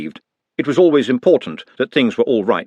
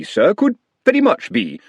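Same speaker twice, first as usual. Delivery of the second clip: higher, fawning groundsman voice; eager to please; a lightly voiced fawning servant; Otomy's voice; 11 semitones higher than usual. Otomy voiced in read story.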